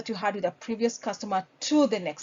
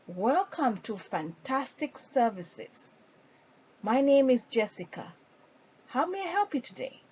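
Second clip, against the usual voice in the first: friendly front-desk welcome; store greeting demo; 2 semitones higher than usual. Shown as a demonstration. Trainer demonstrating an in-store welcome, friendly. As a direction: greet a walk-in customer warmly. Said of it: "if they come to the store".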